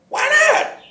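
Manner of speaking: high squeaked taunt; squeaky mock why not. Real, not acted. Mocking the accusers in a squeaky high voice. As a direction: pitch it way up, mocking.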